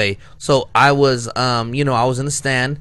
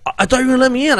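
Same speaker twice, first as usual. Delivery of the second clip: mock whiny driver; 10 semitones higher, much faster than usual. Other driver's quote.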